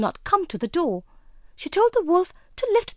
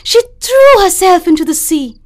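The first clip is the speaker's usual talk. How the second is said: louder, emphatic fairy-tale storytelling; dramatic story narration; 7 dB louder than usual. A narrator's reading. Narrator ending the little mermaid's tale, dramatic storytelling.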